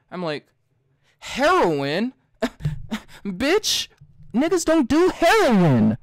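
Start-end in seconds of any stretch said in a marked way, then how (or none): 1.2-6.0 much higher and louder, laughing in disbelief; shrill-free loud incredulous retort with a laugh; incredulous outburst. Retold or imitated. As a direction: scoff at the absurd question, voice shooting up. Mocking retort to drug counselor.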